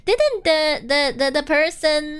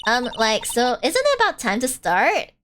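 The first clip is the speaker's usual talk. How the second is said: put-on Valley Girl accent; 3 semitones lower than usual. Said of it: "I get to use my Valley Girl accent".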